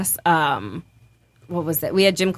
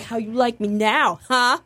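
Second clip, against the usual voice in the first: gloating taunt; 3 semitones higher, slower than usual. Retold or imitated. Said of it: "I was just like".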